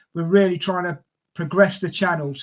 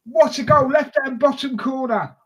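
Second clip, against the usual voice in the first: excited; 6 semitones higher than usual. Real, not acted. Live goal commentary.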